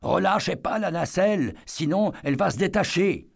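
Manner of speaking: high, calling out over a crowd; desperate warning shouted up to the operators; urgent shout. Acted. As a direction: yell a warning up to the ride. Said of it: "noya ses cris".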